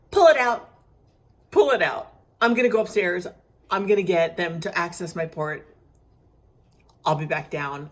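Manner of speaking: loud, insistent, pull it out now; urgent demand. Retold or imitated. Telling the nurse to pull the needle, loud and urgent. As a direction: order her to stop, firmly.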